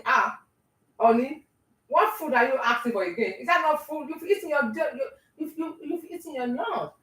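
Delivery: a teary, bewildered American wife. Retold or imitated. American wife confused by her husband's food demands, whining. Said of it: "you might be asking".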